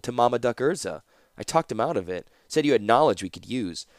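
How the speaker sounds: lightly voiced interrogator, matter-of-fact; a hint of a cool, lecturing captor; brisk captor Ashnod. Captor explains his situation to the prisoner, lightly brisk. Character dialogue in narration.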